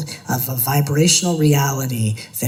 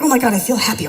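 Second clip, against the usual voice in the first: mock bliss; 8 semitones higher, 4 dB louder, much faster than usual.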